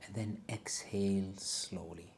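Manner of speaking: breathy meditation whisper; soft spa whisper. Acted. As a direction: whisper the cue to exhale.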